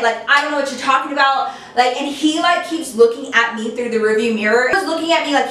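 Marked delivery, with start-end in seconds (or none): 0.3-1.5 quick, defensive retort; retold brush-off, said fast; emphatic denial. Boyfriend denies texting the friend, quick emphatic denial. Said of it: "emphatically denying it".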